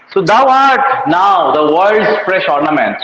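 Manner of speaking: very slow, each word drawn out; slow verse recital. Shown as a demonstration. Teacher reading a sonnet line to the class, very slowly.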